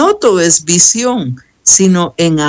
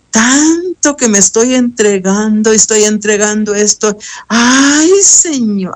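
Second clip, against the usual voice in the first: higher, whiny exasperated grumble at God; exasperated complaining; 4 semitones higher than usual. Retold or imitated. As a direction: complain to the Lord, fed up and whining. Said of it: "hasta hablándole así al Señor". (queja exasperada y quejumbrosa al Señor)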